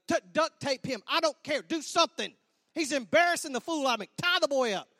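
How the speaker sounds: loud, fed-up commands; exasperated orders. Retold or imitated. Groom begging groomsmen to stop the unruly boy, loud exasperation. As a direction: order them about in comic desperation.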